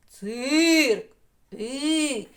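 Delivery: «Цирк» голосно, протяжно, зі спадом; проспівати «Цирк» на повний голос; голосно проспіване слово. Shown as a demonstration. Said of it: "Промовляємо ротом". (гучна вимова для дітей)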